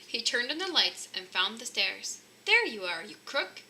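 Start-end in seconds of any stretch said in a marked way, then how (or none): 2.5-3.6 cried. Acted. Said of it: "he cried as he ran down".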